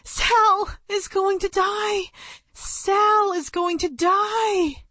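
high, slow, drawn-out cry; girl's mind screaming in panic; booming thought. Acted. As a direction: let the thought boom out slowly. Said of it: "My brain boomed inside my head".

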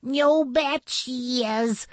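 high, drawn-out boast; calling out. A narrator's reading. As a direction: call it out high and possessive. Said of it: "Sal called out".

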